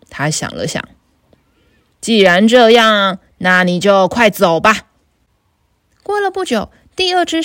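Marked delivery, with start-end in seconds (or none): 2.0-4.9 lower, gruff troll threat; a bullying troll, lightly lowered; big troll. Acted. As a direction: growl it like a hungry troll. Troll lets goat pass.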